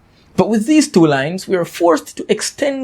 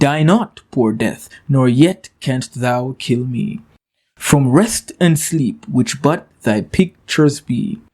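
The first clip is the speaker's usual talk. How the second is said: slow, measured poetry recital; poem reading; 2 semitones lower, slower than usual. Acted. Teacher rereading Donne's sonnet to the class, slow recital. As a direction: read the sonnet slowly, letting each line land.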